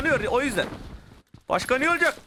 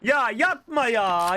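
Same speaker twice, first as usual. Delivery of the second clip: drawn-out dismay; much slower than usual. Real, not acted. Dismay at death.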